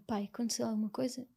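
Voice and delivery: hushed, breathy-free whisper to her father; scared girl whispering to her father in the morning; whispered question. Retold or imitated. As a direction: ask it in a frightened whisper. Asking father early morning, sensing bad news.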